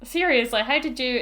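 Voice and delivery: high, incredulous question; mock disbelief. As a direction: ask it as if truly baffled. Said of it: "And I'm like".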